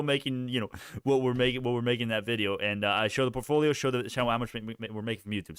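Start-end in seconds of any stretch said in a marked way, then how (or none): 3.7-5.6 stumbling, stuttering over words; tripping on repeated words. Real, not acted. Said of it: "Stuttering, okay".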